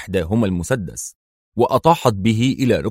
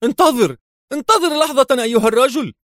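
much higher, fast, terrified plea; frantic panic; faster than usual. A narrator's reading. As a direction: beg for your life in a wild panic. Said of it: "صاح ويليام بفزع جنوني".

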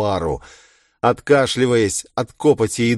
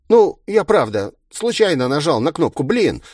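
higher, lightly sheepish villain voice; mock-apologetic villain; 8 semitones higher, 4 dB louder than usual. A narrator's reading. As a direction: make a playful, insincere excuse.

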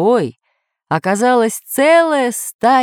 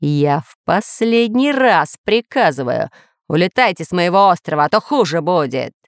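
threatening. Acted. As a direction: order them off menacingly. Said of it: "пригрозил повелитель".

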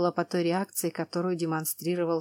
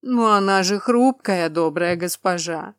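slow giant voice; 6 dB louder than usual. Acted. Cyclops answers.

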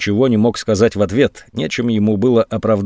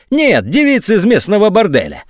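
shrieking with rage; 10 semitones higher than usual. A narrator's reading. General yells at the colonel, enraged shriek. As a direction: screech it out in anger. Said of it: "визгливым от злости голосом прокричал".

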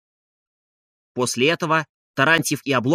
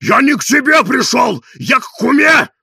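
loud, higher bawl; yelling; 9 semitones higher, 8 dB louder than usual. A narrator's reading. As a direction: yell back in protest. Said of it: "вопил Тарантьев".

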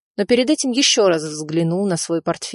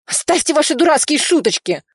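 much higher, shrill-pitched outburst; shrieking; 9 semitones higher than usual. A narrator's reading. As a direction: squeal at the joke. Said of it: "завизжал он".

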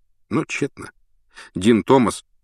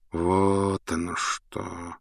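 quiet thoughtful voice; 7 dB quieter, much slower than usual. Acted. Lupin reflects quietly.

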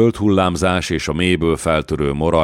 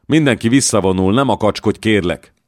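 urgent plea; 5 semitones higher, 4 dB louder than usual. Acted. Dallon begs her to retreat.

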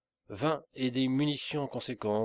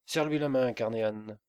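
cri. Acted. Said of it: "cria-t-il".

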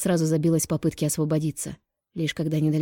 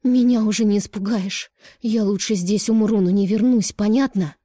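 higher, louder defiant yelling; shouted; 5 semitones higher, 5 dB louder than usual. A narrator's reading. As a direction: hurl every word at him. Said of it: "выкрикнула Даша".

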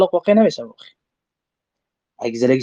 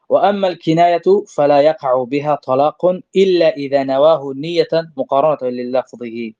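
slow recitation of Arabic text; slower than usual. Shown as a demonstration. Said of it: "reads Arabic source text".

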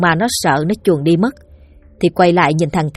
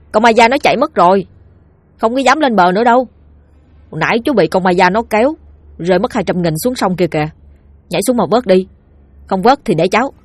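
put-on boy's voice; 2 semitones higher than usual. Boy tricking the uncle.

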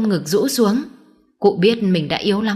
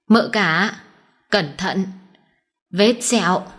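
faint dying delivery, broken by pauses; feeble gasped words; slower than usual. A narrator's reading. Dying old man warns eldest mistress, feeble broken voice. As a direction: eke out each phrase with effort, haltingly. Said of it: "thều thào mấy câu không rõ nghĩa".

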